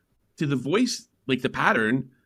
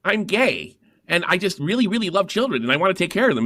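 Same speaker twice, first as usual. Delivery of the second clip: mock interviewee; 6 semitones higher than usual. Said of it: "they would say things like".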